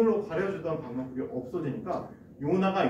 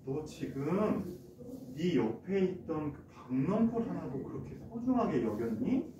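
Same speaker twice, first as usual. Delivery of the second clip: slow, softer fatherly voice; God speaking gently; 4 dB quieter, slower than usual. Acted. God calmly teaching Jonah on the hill, slow and gently soft. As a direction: gently reason with a sulking child. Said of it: "이렇게 말씀하셨어요".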